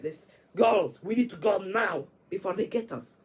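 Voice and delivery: loud, urgent, fading by the end; urgent call. Retold or imitated. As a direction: hurry the girls out, calling loudly at first. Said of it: "he's like".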